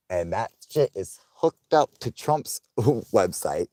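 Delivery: slow conspiratorial whisper; whispered aside. Real, not acted. Streamer revealing the scam to viewers in a whisper. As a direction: let them in on the secret.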